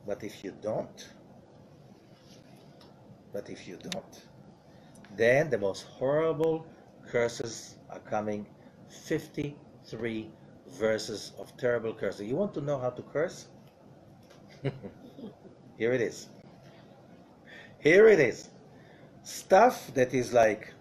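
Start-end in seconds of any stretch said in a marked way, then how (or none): 3.3-4.1 a breathy, ominous whisper; whispered warning. Acted. 14.6-16.3 laughing. Real, not acted. Laughing intro to the curses. 17.8-18.5 louder, pitched-up proclamation; suddenly loud and emphatic; loud announcement. Acted. Announcing the curses.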